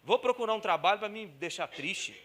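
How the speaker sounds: fala irônica e zombeteira; sarcástico. Pretend. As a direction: finge absurdo, com ironia exagerada. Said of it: "você fala assim". (zombaria irônica e fingida)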